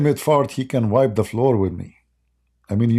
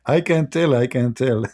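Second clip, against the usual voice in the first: laughing; 2 semitones higher, 4 dB louder than usual. Real, not acted. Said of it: "laughing so hard I can't even breathe".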